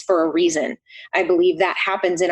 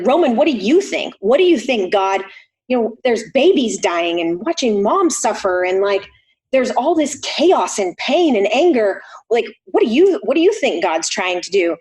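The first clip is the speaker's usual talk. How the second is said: raised, heated pleading questions; ranting at son. Retold or imitated. Grieving mother demanding her son explain God, heated. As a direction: demand an answer in a rising rant.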